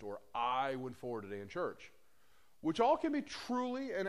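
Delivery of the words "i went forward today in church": long, held I; stress on I. Retold or imitated. Preacher quoting believers who credit themselves, stress on I. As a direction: lean on the word I. Quote stressing the wrong person.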